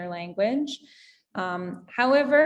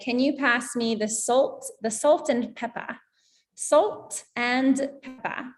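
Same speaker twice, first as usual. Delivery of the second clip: mild, self-mocking British accent; terrible British accent. Shown as a demonstration. Teacher imitates a British diner asking for salt and pepper, terrible British accent. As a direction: ask politely in a shaky-attempt British accent. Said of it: "my British accent, it's quite terrible".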